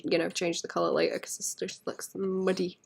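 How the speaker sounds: whispering. Real, not acted. Whispered aside while painting.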